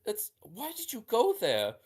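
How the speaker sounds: put-on horrified at where her child went; alarmed mother.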